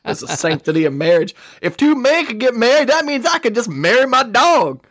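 high-pitched mock indignation; hammed-up moral outrage, climbing high; outraged traditionalist. Co-host parodies gay marriage opponents, mock outraged.

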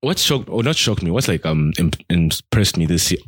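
talking through hiccups; words broken by hiccups. Real, not acted. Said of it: "Guys, forgive my hiccups".

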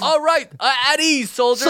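high, laughing mock drill sergeant. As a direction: give orders like a goofy general. Playing General Cleanliness.

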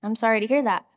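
soft, sad murmur of sympathy; hushed sympathy. Retold or imitated. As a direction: say it gently, touched by the bad news. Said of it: "I was like".

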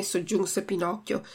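ordinary talk, nothing marked

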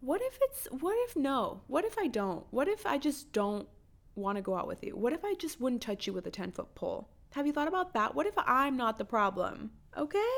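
animated, exasperated comeback; indignant retort. Acted. Woman answering presumptuous men who hit on her, indignant retort. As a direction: fire back in mock outrage, pitch jumping up.

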